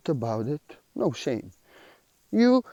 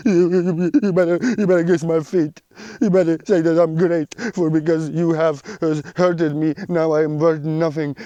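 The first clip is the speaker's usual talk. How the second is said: the ego speaking. Acted. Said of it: "We have our ego".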